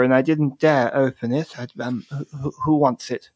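a hint of a timid girl, halting; lightly voiced nervous girl; nervous young Mel. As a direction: stammer it out like a shy child holding a parcel.

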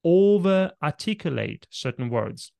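over-articulate spoken loud, every syllable crisp; over-articulated. Shown as a demonstration. Coach demos over-articulating for client. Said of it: "now I'm over-articulating the word over-articulating".

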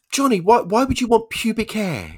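very high, incredulous questioning; teacher acting appalled and puzzled; baffled teacher. Baffled teacher questioning rude pupil.

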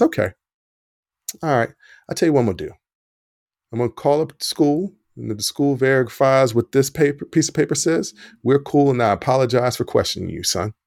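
a lightly voiced calm dad, even and measured; real calm. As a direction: stay steady, no anger, like a father holding back. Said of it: "This is exactly how he said it".

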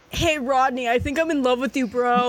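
mimicking another man's voice; a light mimic of Hood; Hood's voice. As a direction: copy Hood exactly, casual and fond. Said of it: "it's exactly Hood's voice".

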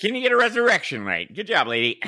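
high mocking sarcasm; sarcastic. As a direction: sneer it with fake praise. Mocking the ex-wife's failure.

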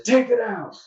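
high, firm mock order from the surgeon; curt surgeon order. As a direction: repeat the order flatly as the surgeon. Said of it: "He says".

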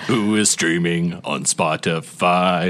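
slow, theatrical poem reading; slow rhyming recital. Acted. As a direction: recite it like a carnival barker. Reads rhyming game intro.

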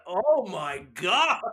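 loud, slow, drawn-out exclamation; mock exclamation. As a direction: stretch it out like a dramatic gasp. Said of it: "where he's like".

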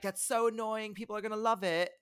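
bad, hammy Swedish accent; Max Martin's Swedish accent. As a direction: imitate a Swedish producer's accent, badly. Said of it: "That was a terrible Swedish accent".

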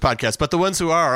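normal talking voice

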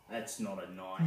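mock deep voice. Repeats knife joke in low voice.

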